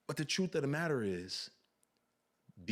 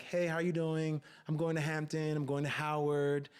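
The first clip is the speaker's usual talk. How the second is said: put-on proper-talking college girls; 4 semitones higher than usual. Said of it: "black girls who speak the king's English".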